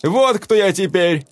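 high, loud bitter cry; woman revealing what she became; anguished cry. A narrator's reading. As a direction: confront them with it. Velda reveals herself.

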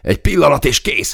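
hurried, high-pitched reply; hurried gabble. A narrator's reading. Gunner wrestling with the jammed gun, hurried gabble. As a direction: blurt it out high and harried. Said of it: "hadarta Zó".

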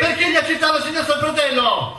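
batter the witness until he breaks; furious shouting interrogation. Acted. Prosecutor badgers witness, shouting.

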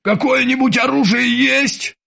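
high panicked shout; shrill cry. A narrator's reading. Krueger cries out to the old sailor for a weapon, panicking. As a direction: voice cracking with fear. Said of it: "не узнавая собственного голоса, выкрикнул".

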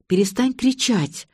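ordinary delivery

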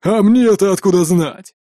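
slow, indignant orc woman; exclaimed. A narrator's reading. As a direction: throw up her hands, annoyed. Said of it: "воскликнула Гришрари". (Гришрари восклицает с раздражением)

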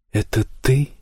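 drowsy mumble, half asleep; sleep talking. A narrator's reading. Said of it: "Сквозь сон пробормотал Герет".

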